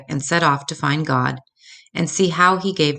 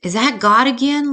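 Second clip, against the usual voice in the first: little cub voice; 8 semitones higher, 4 dB louder than usual. Acted. Sleepy cub asks mama.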